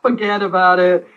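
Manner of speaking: slow mock New York "Forget about it"; New York accent. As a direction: drag it out like a wiseguy. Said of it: "that's my New York".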